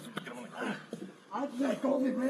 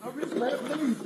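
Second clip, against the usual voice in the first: raised, hurting voice crying out; pained pleading; 3 semitones higher than usual. Real, not acted. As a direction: beg through real pain. Man in pain pleading with officers.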